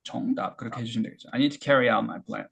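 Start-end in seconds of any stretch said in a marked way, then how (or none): 1.3-2.5 very slow and linked; unhurried repeat for the class; slow demo. Shown as a demonstration. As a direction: model it slowly again. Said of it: "천천히 해볼게요".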